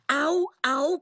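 vysoké bolestné vyjeknutí, ne naplno; hraný křik. A narrator's reading. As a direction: vyjekni výš, jako když to bolí. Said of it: "křičela jsem". (předstíraný bolestný výkřik)

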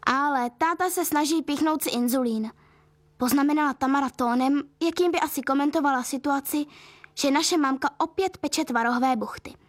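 ordinary delivery, nothing marked

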